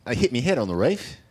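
put-on Australian accent. Shown as a demonstration. Showing off an Australian accent to the hosts, Australian accent. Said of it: "my Australian accent".

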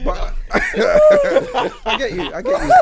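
high drawn-out laughing words. Real, not acted. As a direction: laugh while saying it. Laughing at the story.

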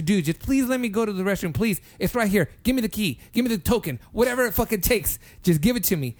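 urgent pleading. Retold or imitated. Retold begging for the restroom.

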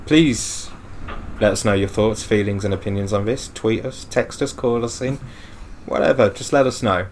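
smooth mock radio announcer; radio host. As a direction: open the show like a late-night DJ.

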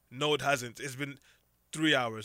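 badly faked Eastern European accent; poor Eastern European accent. Mover contradicting the customer, poor Eastern European accent. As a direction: imitate an Eastern European mover, none too well. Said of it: "my poor attempt at an Eastern European accent".

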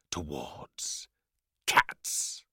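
hushed, breathless storyteller whisper. A narrator's reading. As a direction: whisper it like a dark secret. Dramatic reveal of cruelty.

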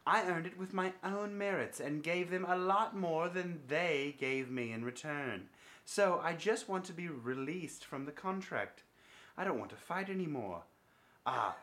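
hammed-up English accent reading a quote. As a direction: read it out in a mock English accent. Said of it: "in an English accent".

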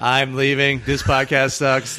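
robot voice. Pretend. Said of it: "pretend like it's Steve the robot".

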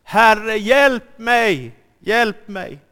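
loud, high desperate shout; cry for help. Acted. Sinking Peter shouts to Jesus for help, loud and high. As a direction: yell for help while sinking. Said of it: "då ropar han".

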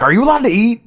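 high, anxious quick questions; worried voice. Retold or imitated. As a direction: fret high and fast like a worrier. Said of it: "I'm like".

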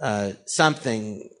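low, slowed movie-line impression; Kathleen Turner. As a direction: lightly imitate a seductive film line. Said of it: "So I did Kathleen Turner".

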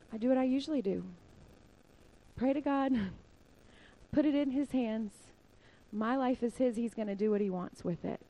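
understated calm, short phrases with long pauses; calm, collected. Retold or imitated. Missionary telling how he faced arrest, calm and collected. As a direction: imitate an unruffled man, falling away softly at the end. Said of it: "calm, cool, collected".

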